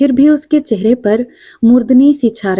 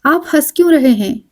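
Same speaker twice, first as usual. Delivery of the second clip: a higher, lightly hurt little protest; touch of complaint; 6 semitones higher, faster than usual. A narrator's reading. Woman on the train, mildly aggrieved at his laughing. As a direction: ask with a faint note of grievance. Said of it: "उसके स्वर में फिर शिकायत का स्पर्श".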